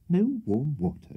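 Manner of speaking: slow, high-pitched exclaimed question; exclaiming. A narrator's reading. Host hearing there's no warm water, exclaiming. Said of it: "exclaimed Mister Bob Sawyer".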